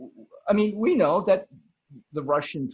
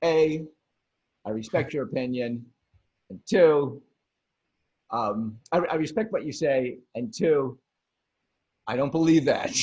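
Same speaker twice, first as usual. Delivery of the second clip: firm but polite; 2 semitones lower than usual. Retold or imitated. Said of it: "And I go".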